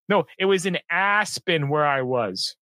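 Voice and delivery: mock name-dropper's proclamation; mock loud boasting. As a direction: imitate someone announcing it for all to hear. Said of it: "and he said very loudly".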